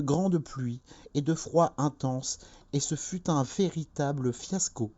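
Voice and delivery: high-pitched, grand oratorical voice; high and solemn, like a leader addressing the nation; televised politician's speech. Acted. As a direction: declaim a dream speech, stretching the big words. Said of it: "Il te dit".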